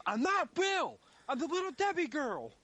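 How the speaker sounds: high, loud indignant yell; mock yell. Retelling Will's outburst, a high mock yell. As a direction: shriek it like an offended mascot. Retold argument, Will yelling back.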